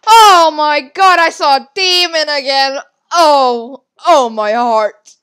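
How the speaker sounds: loud start, falling away slowly; startled fright. Real, not acted. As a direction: exclaim as if your heart jumped. Frightened by seeing a demon again.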